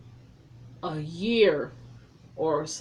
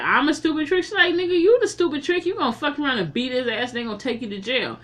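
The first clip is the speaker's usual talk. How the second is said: mock argument; 6 semitones higher, faster than usual. Mickey arguing with Eddie.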